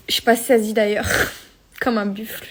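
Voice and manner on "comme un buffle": panting between words; out of breath. Real, not acted. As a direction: still breathless, soft. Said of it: "je suis essoufflée comme un buffle".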